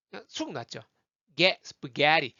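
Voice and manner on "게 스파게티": 스파게티 as "spuh-GEH-ree"; strong 게, swallowed 스파; stress on 게. Shown as a demonstration. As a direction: isolate 게, then punch it inside 스파게티. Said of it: "게에서".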